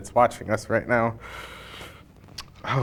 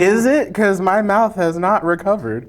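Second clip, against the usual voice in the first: pained disbelief; 9 semitones higher, 7 dB louder than usual. Real, not acted. Mouth burning from sauce.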